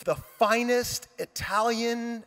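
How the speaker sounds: slow, savored mock car-buff pride; geeking out. Friend showing off his Ferrari, geeking out. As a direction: relish it like a geeking-out car guy. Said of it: "he's geeking out".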